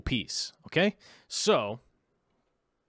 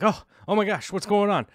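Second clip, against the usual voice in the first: higher, louder startled "Oh, what?"; alarmed friend; 8 semitones higher, 5 dB louder than usual. Retold or imitated. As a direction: play the friend caught off guard, alarmed. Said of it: "And he'd be like".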